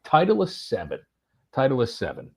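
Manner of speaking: a hint of Finnish accent on the ball name. Golfer telling the searcher his ball in a Finnish accent. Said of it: "in his Finnish accent".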